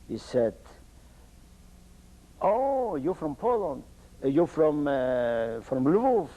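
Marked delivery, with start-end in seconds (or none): 2.4-6.3 surprised greeting. Retold or imitated. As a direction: greet a newly found countryman, voice lifting. Retold Polish soldier greets a countryman.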